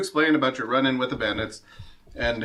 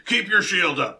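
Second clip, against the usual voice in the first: lightly gruff guard, a bit higher; a hint of a gruff drill guard; 5 semitones higher than usual. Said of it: "calls a gruff voice".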